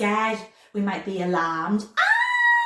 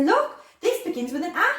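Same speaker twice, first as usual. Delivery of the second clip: put-on child showing off; 8 semitones higher, 4 dB louder than usual. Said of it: "and say".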